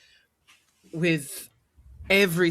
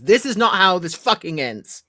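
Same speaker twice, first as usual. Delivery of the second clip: emphatic in-character vow; impassioned defiance; 4 semitones higher, 5 dB louder than usual. Acted. Hero shielding love with their own back, impassioned defiance. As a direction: drive each word home in defiance.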